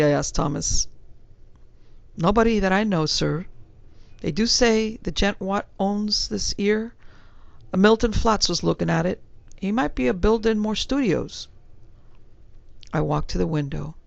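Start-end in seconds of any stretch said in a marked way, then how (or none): 2.2-11.5 lightly voiced Cockney servant, a touch higher; a hint of a respectful London bellboy; young servant answering his gentleman in a light Cockney.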